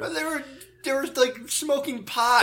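high, loud laughing disbelief. Real, not acted. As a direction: giggle through it.

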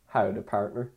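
understated cowboy American greeting; mock American accent. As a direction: toss off a token American accent, low-key. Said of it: "This is what Americans sound like".

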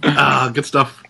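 laughing till crying; gasping words through real laughter; catching breath midword. Real, not acted. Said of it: "I'm crying".

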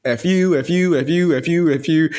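repeated jabs in a mock-kid rhythm; little kid. Wishing to talk back to old teachers, lightly mimicking a kid. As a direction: lightly imitate a little kid's chant. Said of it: "the video of that little kid".

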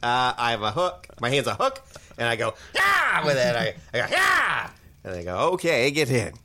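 awkward hook-handed hitchhiker introducing himself; goofy hitchhiker. Acted. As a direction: stammer it like a nervous oddball. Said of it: "the hitchhiker said".

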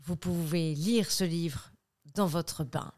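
slow hushed crime documentary voice; lightly voiced true crime host; true crime narrator. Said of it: "la façon faites entrer l'accusé".

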